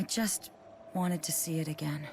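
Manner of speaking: breathy soft whisper. Acted. Spirit quietly admitting her longing, whispered. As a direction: let the wish slip out in a whisper.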